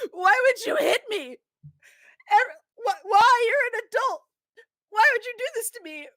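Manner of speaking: a very high, loud wailing sob; fake crying kid. Kid fake-sobs loudly at Ace in the chili line, very high. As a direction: bawl like a child making a scene. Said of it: "finally he is in tears".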